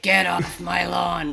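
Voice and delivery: mock crotchety shout; loud, grouchy imitation of an old crank. Retelling Walt shooing grateful neighbours, crotchety. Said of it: "like, he's so crotchety".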